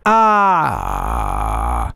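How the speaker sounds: deep, soft, held-in resonant ah; voice placed low. Shown as a demonstration. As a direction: keep it low and inside. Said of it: "¿Notan?".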